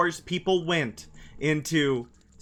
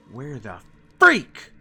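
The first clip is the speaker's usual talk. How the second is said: whispered. Acted. Repeat ending in whisper.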